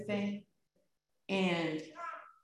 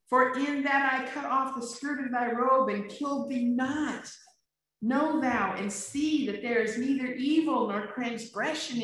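higher, louder earnest plea; David pleading with Saul, raised and urgent; 5 semitones higher, 4 dB louder than usual. Acted. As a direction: beg Saul to see the truth, voice lifted. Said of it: "He's pleading with him".

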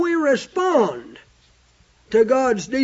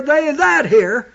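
slow with "that" held; stress on THAT; 2 semitones higher, 3 dB louder than usual. Shown as a demonstration. Preacher stressing the key word to the congregation. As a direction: weigh the word "that". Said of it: "that word "that" took on some importance".

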